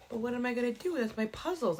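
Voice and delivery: mock childish protest; a hint of a little kid losing a toy; whiny four-year-old. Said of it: "exactly how I felt, like a four-year-old".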